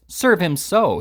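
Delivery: hammed-up loud repeat. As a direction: bellow it again. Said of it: "reiterated Slurk in a loud voice".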